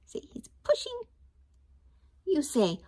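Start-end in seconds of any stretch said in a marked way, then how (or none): 0.1-1.0 high whispered aside. Shown as a demonstration. Teacher whispers to children about the picture.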